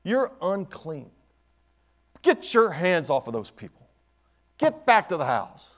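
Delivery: slow, drawn-out accusing orders; devil's rebuke. Acted. Old devil ordering the sick woman back, slow rebuke. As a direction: scold her slowly, spacing out the words. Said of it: "he tells her".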